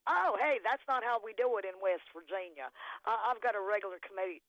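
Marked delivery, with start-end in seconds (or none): 0.1-2.7 mocking quote. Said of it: "So now everything I'm going".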